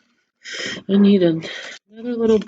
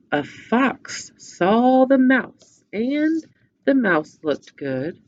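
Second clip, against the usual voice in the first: storybook voice with characters; reading to children; 2 semitones higher than usual. Acted. Teacher retelling the story to children with puppets. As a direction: tell the tale with puppets.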